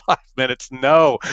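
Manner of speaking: retold groan of protest at the news; dismayed disbelief. Dismayed echo of technician's update.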